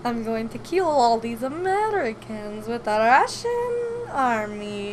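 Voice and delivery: slow, mock-menacing Russian accent. Shown as a demonstration. Performing her Russian one on request, Russian accent. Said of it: "do your Russian one".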